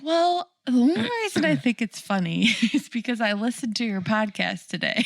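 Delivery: words broken by laughter; laughing while talking. Retold or imitated. Husband laughing as he explains the podcast. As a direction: giggle through the explanation.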